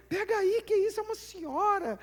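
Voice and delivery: high, mock-scandalized mother voice; embarrassed mother scolding. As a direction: play the flustered mom hushing her baby. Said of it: "a mãe morreu de vergonha".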